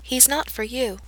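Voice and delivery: very soft, plain firm repeat; solemn girl ordering a wolf, very softly; simply. A narrator's reading. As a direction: tell the wolf quietly. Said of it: "she repeats simply".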